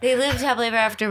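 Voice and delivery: quick light fairy-tale recital; storybook ending. Retold or imitated. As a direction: rattle off the ending. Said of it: "the line that the lady says".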